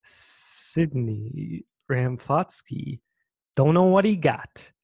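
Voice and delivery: slow jingle with hissing, stretched S's; drawn-out s like a snake. Pretend. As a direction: hiss every S like a snake. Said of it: "You sounded like a snake".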